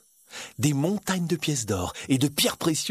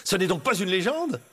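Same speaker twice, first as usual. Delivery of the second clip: higher-pitched astonished question; wondering; 6 semitones higher than usual. Acted. Aladdin realises the flying carpet is real, amazed. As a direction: ask in wide-eyed wonder.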